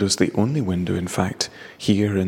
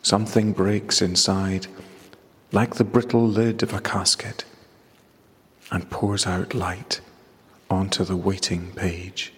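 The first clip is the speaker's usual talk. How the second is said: poem reading. Acted. Reads his poem aloud.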